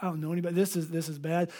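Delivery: quiet, halting dread, lightly acted; lonely. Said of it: "feeling incredibly lonely".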